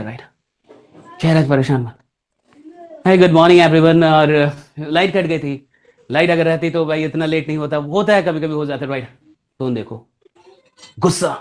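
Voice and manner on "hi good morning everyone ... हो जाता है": troubled face. Shown as a demonstration. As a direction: greet them like something is bothering you.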